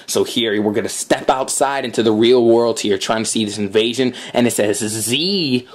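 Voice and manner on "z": stretched Z with the voice slipping; accidental vocal wobble; voice slip. Real, not acted. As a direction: let the voice slip oddly on the letter. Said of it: "what happened to my voice there".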